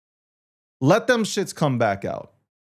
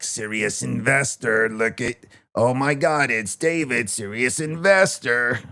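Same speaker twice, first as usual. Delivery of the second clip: a hint of smarmy salesman voice, slow and drawn out; understated sales-pitch voice, stretched on investor; mocking the salesmen; 6 semitones lower, slower than usual. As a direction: lightly imitate the sellers flattering him. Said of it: "they would not let up on that voice".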